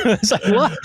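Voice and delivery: high, laughing disbelief; mock astonishment. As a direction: exclaim it as if comically baffled. Acts out baffled reaction, laughing.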